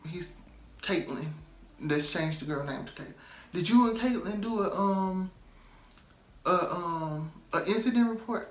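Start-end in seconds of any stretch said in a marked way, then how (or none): 3.5-8.5 imitating manager. Manager asking about incident report.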